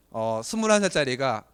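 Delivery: normal talking voice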